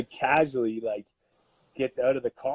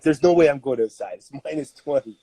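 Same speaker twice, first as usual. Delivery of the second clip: wife refusing; 4 semitones higher, 5 dB louder than usual. Retold or imitated. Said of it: "she's like".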